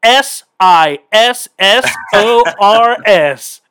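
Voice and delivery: slow, letter-by-letter spelling of S I S S O R S; confident slow spelling bee spelling; spelling it out slowly. Retold or imitated. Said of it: "I said, "Scissors".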